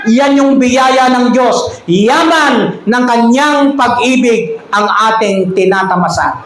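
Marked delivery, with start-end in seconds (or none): 1.8-6.4 slow emphatic preaching. Real, not acted. Third repetition, slow.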